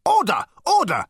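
high, loud little yaps; yapped. A narrator's reading. Management consultant calling the meeting to order, yapped. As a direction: yap for order. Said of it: "yapped the management consultant".

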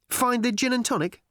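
high, perky echo; bright. A narrator's reading. Ford eagerly finishes Arthur's question, bright and high. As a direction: pick up the question cheerily, pitched high. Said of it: "said Ford brightly".

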